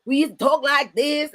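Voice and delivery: ordinary delivery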